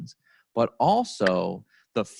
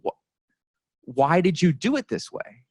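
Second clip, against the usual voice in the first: mock exasperation, higher and drawn out; retold blow-up; 6 semitones higher than usual. Boss confronting the team over their process, exasperated. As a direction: imitate an upset boss demanding answers, slowly. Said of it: "he blew up at the team".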